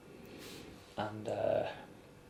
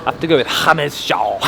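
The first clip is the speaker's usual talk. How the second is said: Spanish accent. Shown as a demonstration. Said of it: "Spanish accent".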